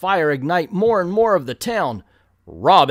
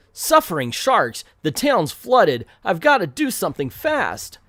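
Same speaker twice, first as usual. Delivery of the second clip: urgent comic-book hero exclamation; urgent mock-heroic alarm; 4 semitones higher than usual. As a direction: play the startled young hero, mildly hammed-up. Hero reacts to flooded town.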